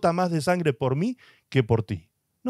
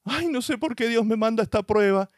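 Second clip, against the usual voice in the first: whiny complainer; 5 semitones higher than usual. Retold or imitated. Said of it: "hay quienes dicen".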